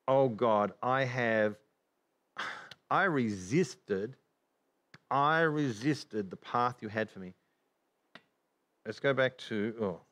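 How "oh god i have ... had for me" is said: slow, measured confession with a sigh; understated acted repentance; earnest sadness. Preacher modelling a sinner's confession to God, understated sadness. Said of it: "where my sadness needs to come in".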